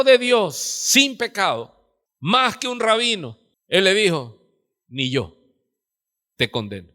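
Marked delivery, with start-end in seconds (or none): 4.9-6.9 tender forgiveness. Acted. Jesus forgives the woman.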